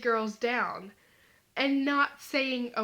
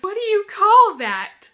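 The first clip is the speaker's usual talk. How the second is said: laughing question; 8 semitones higher, 12 dB louder than usual. Retold or imitated. Guy cracks up asking.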